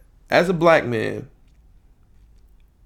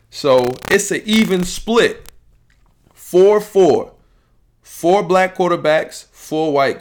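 emphatic point; 8 semitones higher, 6 dB louder, slower than usual. Real, not acted. Making his point about quarterbacks.

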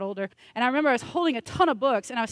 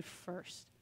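whispered; 4 semitones lower, 20 dB quieter than usual. Acted. Whispered emphasis word.

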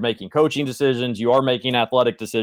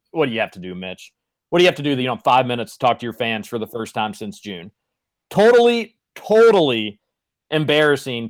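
whiny. Real, not acted. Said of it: "I did sound a little whiny there".

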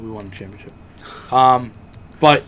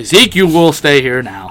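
mock stern command; 4 semitones higher, 9 dB louder than usual. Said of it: "I will say".

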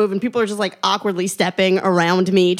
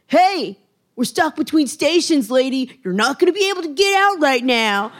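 higher, lightly put-on voice of a blunt stranger; know-it-all guy on the train; 5 semitones higher than usual. Commuter tells panicking woman she can't get out, lightly voiced. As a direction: play the unhelpful commuter, matter-of-fact. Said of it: "And this guy's like".

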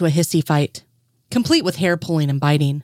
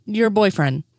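incredulous; 3 semitones higher than usual. Acted. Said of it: "Anderson said incredulously".

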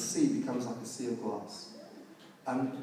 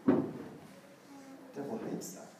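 whisper; 5 dB quieter, much slower than usual. Acted. Aside about the devil's hatred.

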